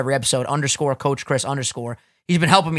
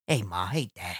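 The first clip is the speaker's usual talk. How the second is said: lazy greeting; 9 semitones lower, 10 dB quieter than usual. Retold or imitated. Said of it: "walking down the hall saying".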